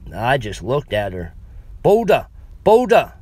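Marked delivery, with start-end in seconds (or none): 1.8-3.1 put-on higher and louder, insistent foreign accent; more intense. Frustrated old woman repeating herself to the clerk, loud and insistent. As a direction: push the word hard, she isn't being understood. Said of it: "she said more intensely".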